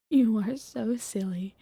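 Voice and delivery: slow teasing whisper. Acted.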